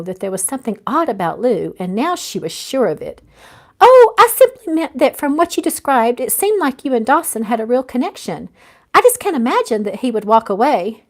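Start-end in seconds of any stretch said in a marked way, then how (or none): 3.8-11.0 lightly voiced friend, quick cover-up; a hint of a flustered new friend; Lou, a touch higher and brighter. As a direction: start high and loud, then settle back. Narrator voices Lou's reply.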